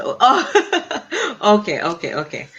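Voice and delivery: high laughing oh, then okays; laughing realisation. Real, not acted. Host realising who a viewer meant, laughing. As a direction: laugh as it clicks.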